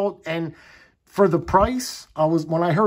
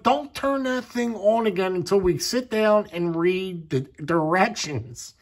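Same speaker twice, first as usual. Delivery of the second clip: imitating wife; 3 semitones higher than usual. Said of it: "She's like".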